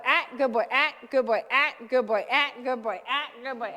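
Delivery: put-on loud "ah, good boy" over and over, fading at the end; repeated marker and praise. Trainer retelling training her Mastiff, loud then fading. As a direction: keep correcting and praising in a steady rhythm. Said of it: "I was going".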